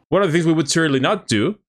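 put-on repeating the English quote with a light Mexican accent. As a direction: echo the line, half Mexican accent slipping in. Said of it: "a mí me salió como el acento, ¿no? Medio, medio mexa". (inglés con un leve acento mexicano)

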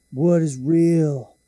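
put-on drawn-out, dazed drunk question; a lightly voiced slow drunk stranger; slow drunk musing. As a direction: stretch it out like a drunk man.

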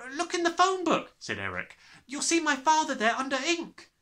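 put-on high, timid boy's voice; brave small boy. Small boy daring to question the headmistress.

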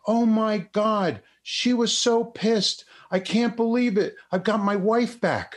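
mock thrilled husband, pitch up high; overjoyed husband. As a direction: voice the husband beside himself with joy, laughing at the end. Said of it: "he was beside himself".

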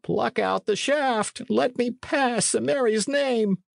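high, slow dying gasp. Acted. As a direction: plead with the last breath. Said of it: "gasped Appleyard".

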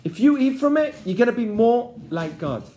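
a touch of a persuasive snake; the snake to the woman, lightly voiced temptation; tempting snake. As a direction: lure her in, promising. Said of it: "Now goes the snake and he says".

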